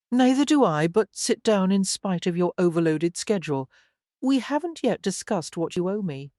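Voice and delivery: slice her with every word; cutting tone. Acted. Man cuts off a woman who claims no time, cutting. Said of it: "uttered in the most cutting of tones".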